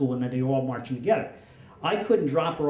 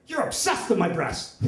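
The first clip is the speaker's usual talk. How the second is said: higher, indignant imitation of a teen; mock accusation by daughter; 5 semitones higher than usual. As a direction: accuse dad, acting the daughter.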